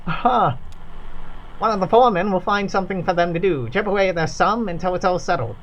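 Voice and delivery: lightly voiced worker, awed by the formula; reverent factory worker. Worker telling visitors about the formula, reverent. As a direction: tell it like a sacred story.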